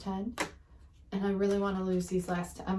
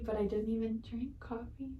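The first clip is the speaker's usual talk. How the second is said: whisper; 6 dB quieter than usual. Real, not acted. Tired aside to viewers.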